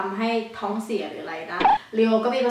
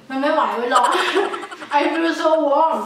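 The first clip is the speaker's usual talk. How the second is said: laughing through heat; 5 semitones higher, slower than usual. Real, not acted. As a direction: giggle it out while the spice burns. Burning from spicy noodles.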